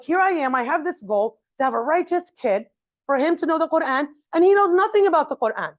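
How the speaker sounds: exasperated parent rising in pitch; frustrated parent. Retold or imitated. Parent frustrated that the son knows no Quran. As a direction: vent the parent's frustration at the kid. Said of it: "maybe frustrated".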